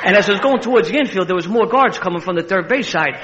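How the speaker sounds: high, loud, laughing retelling; can't stop laughing while telling it; gleeful laughing storytelling; laughing through it. Real, not acted.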